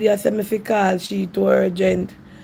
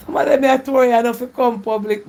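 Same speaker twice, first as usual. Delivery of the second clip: laughing; 3 semitones higher than usual. Real, not acted. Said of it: "Me nah laugh at funny".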